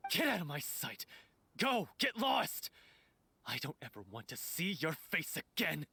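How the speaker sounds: bitter rejection, peaking on the order to leave; angry dismissal. Acted. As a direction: send them away in anger. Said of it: "You've screamed and shouted at each other".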